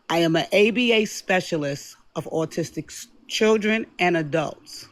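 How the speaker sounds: calm, controlled and measured; composed address with careful pauses; deliberately calm. Real, not acted. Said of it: "talk in my most calmest voice".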